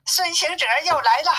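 high-pitched little demon voice; little demon reporting. Acted. Little demon reports to the demon king, high-pitched. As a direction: pipe up with news for the boss.

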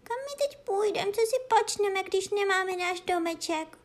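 cat wailing that their house is gone. Acted. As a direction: wail it like a heartbroken little cat. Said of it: "naříkala kočička".

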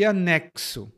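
"anexo" measured, X said as ks; "anexo" as a teaching word, with a clear ks; ks sound. Shown as a demonstration. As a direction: model "anexo" as a-NEK-so. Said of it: "é o som de X".

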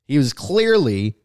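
ordinary talk

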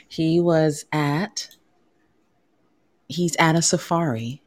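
reading it like a news anchor; lightly done newscast read; news reporter voice. Acted. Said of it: "Get my news reporter voice on here".

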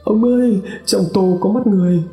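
terrified scream. A narrator's reading. Wife sees eyes in the soup, screams in terror to husband. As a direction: scream it in horror at the bowl. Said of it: "hét lên".

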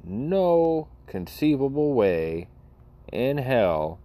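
dragging incredulous emphasis; emphatic disbelief. Real, not acted. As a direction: spell out the outrage.

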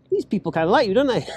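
dad amused. Retold or imitated. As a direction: tease with a laugh in it. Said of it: "And he's like".

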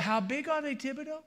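very high Cajun character voice; Cajun accent. Acted. Boudreaux calling back to Thibodeau, high Cajun accent. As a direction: ask it high, in comic Cajun. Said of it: "start talking like a Cajun".

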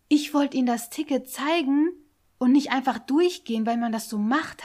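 "zeigen" and "durchgehen" firmly stressed; pointedly stressed. Retold or imitated. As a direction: retell "ich wollte Ihnen das Ticket zeigen" loud and emphatic. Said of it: "So richtig betont".

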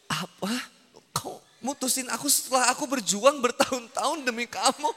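hammed-up soap-opera heartbreak, half sung; mock melodrama. Ustaz mocking a dumped woman's lament, hammed-up melodrama. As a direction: overplay the dumped lover for laughs. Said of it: "Nggak usah lebay".

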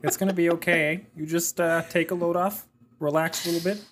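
easygoing Canadian reassurance; mock Canadian accent. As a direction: soothe them like a calm Canadian neighbour. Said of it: "your Canadian accent".

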